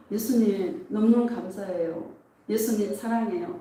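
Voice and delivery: soft, lightly voiced prayer of love; tender confession. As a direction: confess love to Jesus, hushed and intimate. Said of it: "막 고백하고 있는데". (나직하게 사랑을 고백하듯)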